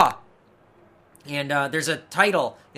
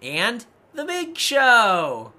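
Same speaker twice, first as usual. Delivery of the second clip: incredulous listing; 6 semitones higher, 6 dB louder, slower than usual. Real, not acted. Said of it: "mocking roster list".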